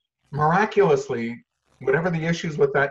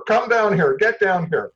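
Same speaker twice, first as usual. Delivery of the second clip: loud, high barked order; negative parent yelling; 6 semitones higher, 7 dB louder than usual. Acted. Parent at front door to child, angry call. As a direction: yell up to the kid from downstairs. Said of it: "negative activation".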